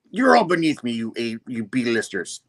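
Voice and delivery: scornful villain. Acted. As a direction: look down on the lackeys theatrically.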